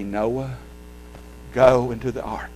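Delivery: a sending go, not an invitation; stress on GO. Shown as a demonstration. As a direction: GO set against come. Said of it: "Didn't say that".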